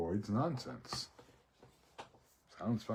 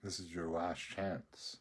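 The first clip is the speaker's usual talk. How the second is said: ominous quote; 3 dB quieter, slower than usual. Retold or imitated. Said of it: "he makes a comment".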